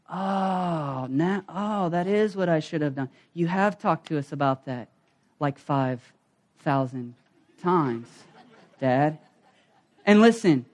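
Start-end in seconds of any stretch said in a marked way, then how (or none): 0.1-9.2 put-on soft, sheepish kid realization; imitating kids grudgingly admitting it to their dad; kids conceding. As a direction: drop it quieter and lower, trailing into broken-up words. Kids' dawning realization, acted out.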